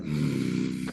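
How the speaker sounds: low imitated "mm" of displeasure; disapproving hum. Singed co-star staring right at the speaker, low disapproving hum. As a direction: hum low, acting out a pointed look. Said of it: "And the look, he's like".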